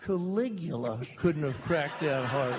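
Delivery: chuckling comeback; laughing retort. Real, not acted. Son retelling his retort to Dad, laughing.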